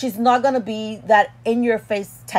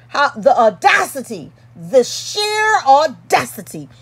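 mock outrage; 4 semitones higher than usual.

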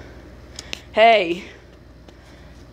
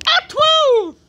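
announcer voice; 4 dB louder than usual. Acted. Announcer shouting act title.

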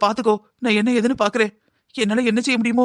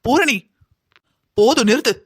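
angry outburst; 3 semitones higher than usual. Acted. Aunt cuts off cruel daughter-in-law.

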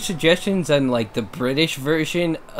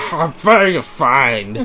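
louder mock freakout; mock Markiplier freakout; 6 dB louder than usual. Imitating the Markiplier freakout, mock. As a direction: replay the freakout. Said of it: "Markiplier just freaking out voice".

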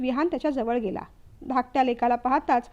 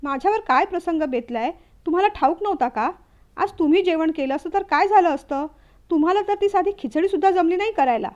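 angry retort; 3 semitones higher than usual. Acted. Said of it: "तीही भडकली".

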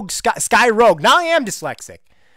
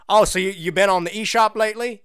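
store clerk; 5 semitones higher than usual. Pretend. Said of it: "that was a little role-playing there".

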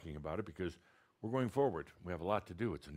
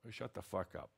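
blunt direct; 4 dB quieter than usual. Real, not acted. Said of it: "I told you it's gonna be more direct".

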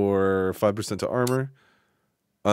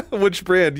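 higher, louder, laughing through it; 9 semitones higher, 5 dB louder than usual. Real, not acted. Streamer laughing as he asks chat again. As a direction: burst out laughing as you repeat the question.

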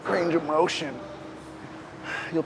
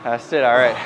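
encouraging; 3 dB louder than usual. Real, not acted. Cheering on partner.

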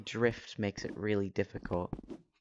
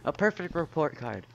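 robot voice. Acted. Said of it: "That's intentional".

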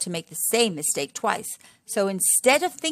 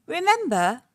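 lightly raised fatherly warthog voice; a hint of a warning papa warthog; Mister Warthog; 8 semitones higher, 5 dB louder than usual. Storyteller voicing Mister Warthog warning the children, higher and louder.

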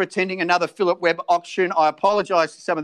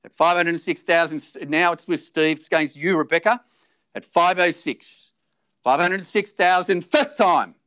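auctioneer calling. Acted.

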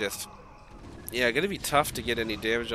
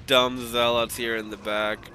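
JH impression; 2 semitones higher, 3 dB louder than usual. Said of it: "his best J H impression".

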